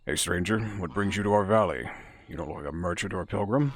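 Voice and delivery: lightly gravelled villager greeting a stranger; a hint of gravel, friendly but wary; gravelly voice. Villager greeting a stranger, lightly gravelly. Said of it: "I'm gonna give him a, a gravelly voice".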